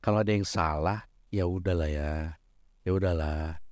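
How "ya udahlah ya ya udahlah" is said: low, soft letting-it-go tone; easygoing forgiveness. Acted. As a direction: gently shrug off someone's mistake. Acting out forgiving a mistake. (nada rendah memaafkan, santai)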